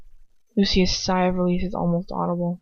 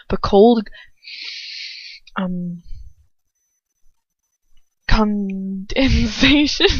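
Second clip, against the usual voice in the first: fighting tears, stretched out slowly; choked up; 4 dB louder, much slower than usual. Real, not acted. Reader tearing up at Draco's cold upbringing, voice breaking. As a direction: voice cracking on the word. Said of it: "Can't even say it".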